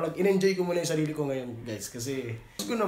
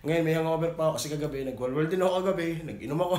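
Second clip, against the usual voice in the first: hungover voice. Real, not acted. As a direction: sound worn out from drinking. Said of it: "Kung napapansin yung boses ko, parang iba".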